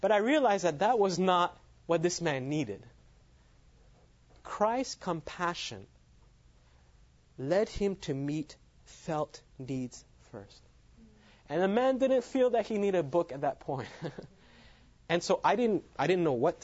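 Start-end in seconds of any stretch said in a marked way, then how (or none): 4.4-10.6 slowed right down, each word weighed; slow solemn emphasis. Acted. Preacher stating the key lesson to his listeners, slow and solemn. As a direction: let the lesson sink in slowly.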